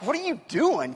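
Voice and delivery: mildly sassy challenge; sassy attitude. Retold or imitated. Imitating the woman questioning Jesus, mildly sassy. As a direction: put a little sass into the question. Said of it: "kind of an attitude".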